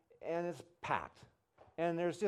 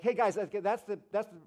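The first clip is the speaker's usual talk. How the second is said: loud, higher speaker wrapping up a talk; Rick Warren; 5 semitones higher, 5 dB louder than usual. Retold or imitated. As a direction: imitate a preacher addressing a room. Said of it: "Rick's kinda wrapping up".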